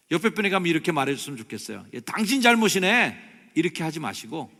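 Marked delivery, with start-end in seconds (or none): 1.9-3.3 loud, high, blaming outburst; startling accusation. Shown as a demonstration. Preacher shows congregation how not to address a neighbour, loud accusation. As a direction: snap the blame out at full volume. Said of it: "깜짝 놀라셨죠".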